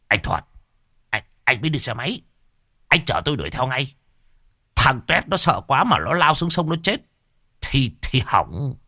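fast, urgent, worried begging; panicked plea. Acted. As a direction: hurry him along in a fluster.

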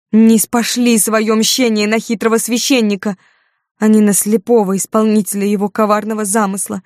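high, loud prophetic cursing; damn them like a possessed prophetess; raving curse. Acted. Frenzied curse of the priest. (исступлённое проклятие, высоко и громко)

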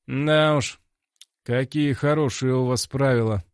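dry mocking praise; sarcastic. A narrator's reading. Hero mocks the director's rules, sarcastic. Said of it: "не скрывая саркастического тона".

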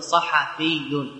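drawn out carefully; slow demonstration. Shown as a demonstration. Teacher giving students the correct nisba, slowly. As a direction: model the correct form slowly. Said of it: "فتقول".

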